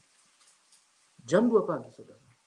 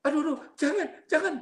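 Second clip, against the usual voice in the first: high-pitched mock plea to stop; imitated frightened cry; 11 semitones higher, faster than usual. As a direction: act out a demon yelping in panic. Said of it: "dia teriak".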